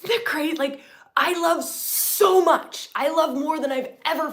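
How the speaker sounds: high, loud and gushing; elated outburst of love; excited. Real, not acted.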